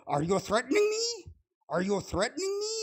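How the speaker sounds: high mocking whine; parroting high accusation; mocking quote. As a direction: repeat their line in a high mock voice. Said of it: "They go".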